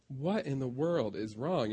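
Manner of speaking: slow, drawn-out indignant demand; retold exasperation, stretching the words out. Manager demanding an answer from his laughing brother, indignant. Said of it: "kind of getting indignant with him".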